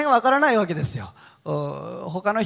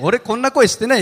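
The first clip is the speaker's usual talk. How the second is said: retold denial, higher and louder; stubborn insistence; 6 semitones higher, 5 dB louder than usual. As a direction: act out digging your heels in. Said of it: "めっちゃ言い張ったんですけど".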